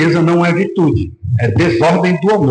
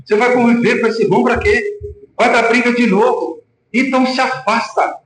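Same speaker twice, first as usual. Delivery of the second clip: lightly mocked cautious counsel, pitched higher; imitated preacher's advice; 7 semitones higher than usual. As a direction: mimic a preacher advising a brother to keep away. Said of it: "Foi isso que eu ouvi na pregação".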